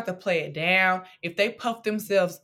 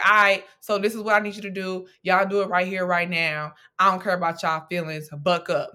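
louder, brisk mock-drill-sergeant order; hammed-up impatient commander; mock tough-love command, louder and quick; bossy dismissive God; 2 semitones lower, 4 dB louder than usual. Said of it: "send him off to be like".

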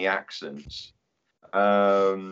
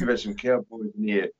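lightly voiced grumbling foreman; a hint of a demon foreman. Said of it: "a foreman demon".

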